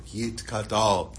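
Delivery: reciting Kaddish slowly for another to repeat; very slow, measured Hebrew recitation; word by word prayer. Retold or imitated. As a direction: lead the prayer, drawing out each word. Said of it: "he's going word by word".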